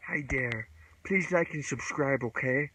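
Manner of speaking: put-on basic white girl. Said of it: "I'm gonna be a basic white girl right now".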